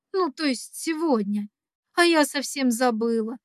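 usual speaking voice

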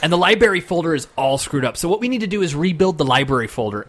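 mildly mocked coworker on a support call; imitated coworker. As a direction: imitate a casual support tech explaining a problem. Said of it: "he would go like".

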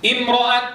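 امرأة ending on a silent t, no vowel trace; pure sukun stop. Shown as a demonstration. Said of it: "بالسكون المحض".

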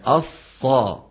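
"الصا" with a strong, distinct whistle on the ص; clear whistling sad. Shown as a demonstration. Teacher showing students a clear sad, "الصا" with distinct whistle. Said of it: "لابد من البيان".

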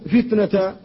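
فتنة ending in a long a, the poet's weak usage; pausal alif ending. Shown as a demonstration. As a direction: end فتنة on a drawn-out alif, slowly. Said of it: "وقف عليها هو بالألف".

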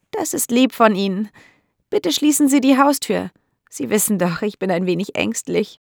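a hint of a lonely elderly lady; old landlady. (leicht angedeutete alte, einsame Dame, etwas höher)

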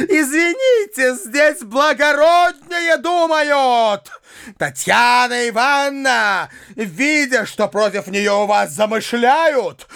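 high-pitched indignant harangue; furious tirade. A narrator's reading. Widow raging at the uncle, high indignant harangue.

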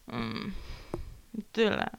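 normal talking voice

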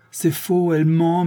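high, pleading voice of an accused man defending himself; protesting accused. Acted. Séraphin denies the witness. (accusé qui proteste, voix aiguë et pressante)

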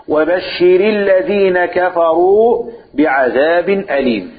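sarcastic irony. Shown as a demonstration. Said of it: "ولكن هذا أسلوب تهكم".

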